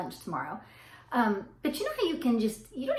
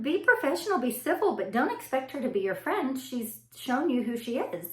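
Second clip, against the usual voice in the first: high voiced advice; 4 semitones higher than usual. Boyfriend's advice quoted.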